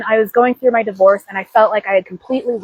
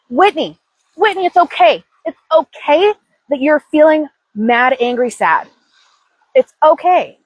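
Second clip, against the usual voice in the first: self-soothing; 4 semitones higher than usual. Retold or imitated. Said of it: "I have to tell myself".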